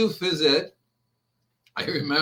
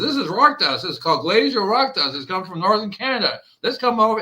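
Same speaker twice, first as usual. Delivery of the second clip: a bit louder and higher, keen to show off the product; eager sales pitch; 5 semitones higher, 4 dB louder than usual. Retold or imitated. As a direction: sell the rock dust with mild excitement. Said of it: "He says".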